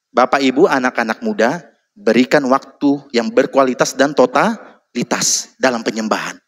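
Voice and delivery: ordinary talk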